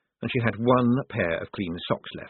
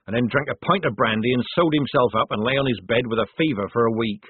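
lightly voiced, rough-spoken soldier telling a tale; retort, then spin the barrack-room story; soldier retorting with gossip; 2 semitones higher, 4 dB louder than usual.

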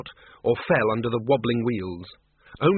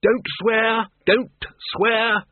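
high, raised, repeated order; shouting over noise; 9 semitones higher, much slower than usual. Acted. Ridcully orders the Dean over the noise, shouting. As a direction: call out a sharp order above the din. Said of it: "shouted Ridcully above the noise".

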